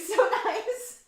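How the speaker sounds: high, laughing delight; real laughter. Real, not acted. Amused by a viewer's promise, laughing high. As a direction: laugh warmly at the joke. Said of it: "laughs at viewer's joke".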